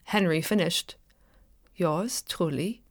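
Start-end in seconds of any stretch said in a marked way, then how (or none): 1.8-2.8 slow, soft and stunned; hushed dazed reading of Yours truly; baffled. A narrator's reading. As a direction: let it fall out of you in disbelief. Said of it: "Baffled beyond the point of refusal".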